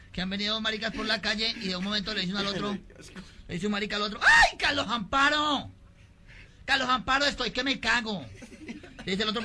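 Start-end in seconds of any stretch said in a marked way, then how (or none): 4.2-8.2 high, slow, campy cry for help; urgent wailing. Acted. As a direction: whine dramatically to a friend, stretching it out. Personaje clama urgido a su amigo. (lamento agudo y afectado)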